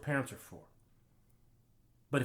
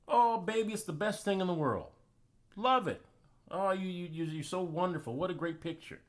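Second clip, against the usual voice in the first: gushing, sweet mom voice, pitched up; doting mom; 5 semitones higher than usual. Retold or imitated. Mom praising her son's drawing, gushing and sweet. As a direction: heap praise on the little boy like a proud mother. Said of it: "Mom loved it".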